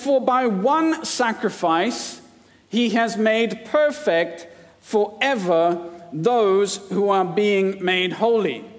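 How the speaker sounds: slow, deliberate reading of the verse; measured, slow reading with stress on "one"; slow scripture reading. Shown as a demonstration. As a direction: weigh each word of the verse. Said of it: "Verse fourteen".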